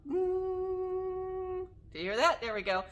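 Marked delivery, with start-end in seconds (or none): 0.1-1.6 giraffe hum. Shown as a demonstration. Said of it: "Can I hum?".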